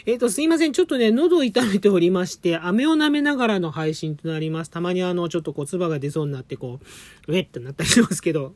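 talking around a candy; sucking a candy. Real, not acted. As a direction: sore throat, candy in mouth.

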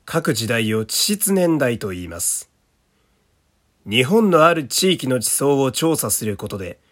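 slow, deliberate documentary read; narration voice. Shown as a demonstration. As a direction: read it like a punchy variety show voiceover. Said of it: "ちょっとナレーションっぽく読んでいきたいかなと". (ナレーション風の読み)

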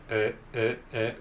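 "う" as a short isolated English L; tongue tip behind upper teeth, voice "う" as L; L sound demo. Shown as a demonstration. Teacher showing how L sounds, repeated short "う". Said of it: "こういう感じでLを発音します".

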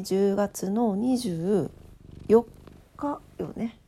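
words stretched through a yawn. Real, not acted. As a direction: talk mid-yawn, very slow. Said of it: "あくびが出てました". (あくびしながら)

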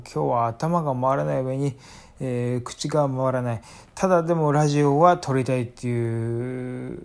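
slurred tipsy speech. Real, not acted.

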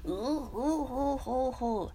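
slow, tentative cartoon chuckle; Doraemon. Streamer testing the cartoon chuckle, slow imitation. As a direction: space out the round hoots. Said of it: "ドラえもんの声どっかな".

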